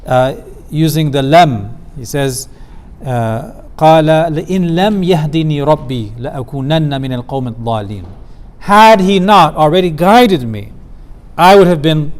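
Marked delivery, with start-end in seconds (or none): 3.8-8.0 تلاوة القرآن; Quranic recitation. Acted. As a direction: recite the verse in a chanting tone.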